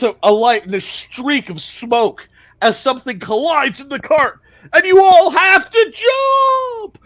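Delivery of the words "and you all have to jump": shout. Acted. GM narrates explosion dramatically.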